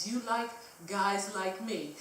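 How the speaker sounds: slow, slurring fake British accent; badly faked British drawl. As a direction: imitate a drunk Brit chatting someone up. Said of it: "my really bad British accent".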